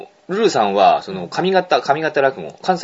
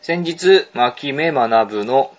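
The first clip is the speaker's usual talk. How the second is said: mail reading. Acted. Radio host reading a listener's mail aloud, measured mail reading. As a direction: read a letter out in unhurried phrases.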